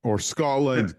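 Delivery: a jokey English football fan cheer; English accent. Pretend. Teasing his co-host in a mock English accent. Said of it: "I don't know why you did an English accent there".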